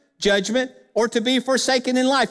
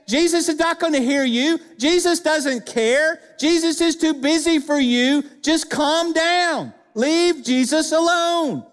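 high, insistent, dismissive rebuke; scolding crowd; 6 semitones higher than usual. Acted. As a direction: drive him off with emphatic, raised-pitch commands. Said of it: "You know what they're saying?".

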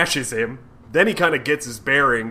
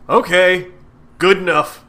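hammed-up Razorback; 3 semitones higher, 7 dB louder than usual. Razorback introduces himself, retold.

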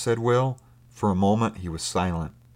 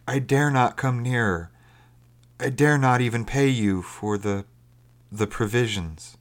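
lightly voiced castaway, slightly raised pitch, halting; hopeless unseen stranger, apologetic; 4 semitones higher than usual. Stranger refusing to come near sailors, apologetic and hesitant.

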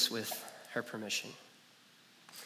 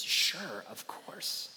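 soft reply trailing to a whisper; gentle answer; 6 dB quieter, much slower than usual. Acted. The Lord answers the prayer, soft and hushed. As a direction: answer with quiet certainty. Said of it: "our Lord's answer to that is".

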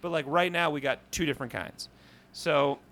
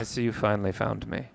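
put-on lower, half-hearted Swedish accent; terrible Swedish accent; 5 semitones lower than usual. Tiny Swedish man in the drawer, low, badly faked Swedish accent. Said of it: "It's the worst Swedish accent I've ever heard".

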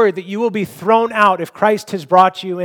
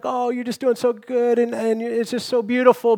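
forced reassurance; 4 semitones higher than usual. Retold or imitated. Husband hiding terror, reassuring his wife gently. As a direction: sound brave for her.

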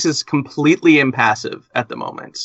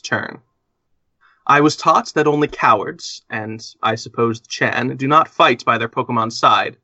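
caring voice. Acted. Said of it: "he says in a caring voice".

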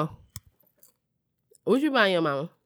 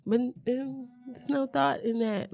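imitating mom; 7 semitones higher, 5 dB quieter, slower than usual. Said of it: "she'll be like".

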